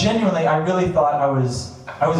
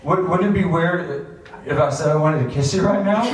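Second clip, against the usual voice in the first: laughing through it. Retold or imitated. Retells asking to kiss him.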